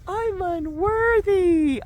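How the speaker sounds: high, slow crybaby whimper; whiny baby voice. Shown as a demonstration. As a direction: whine it like a crying baby. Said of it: "Now say it like a baby".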